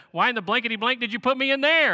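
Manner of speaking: loud, outraged squawk of a complaint; indignant parrot. Acted. Parrot yelling at its owners, loud and outraged. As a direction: bark it like a furious frozen bird. Angry parrot after freezer.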